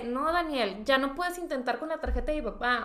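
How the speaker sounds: mild retold resignation; understated, resigned tone; giving up. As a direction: concede defeat to a friend. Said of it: "dándome por vencida".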